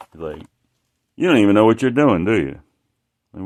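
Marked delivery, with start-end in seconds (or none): 1.2-2.6 retold angry guy. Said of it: "It, like, he was pissed".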